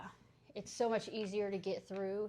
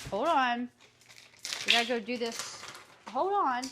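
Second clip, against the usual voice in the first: firm command; 4 dB louder than usual. Real, not acted. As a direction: order the dogs to wait. Telling dogs to wait.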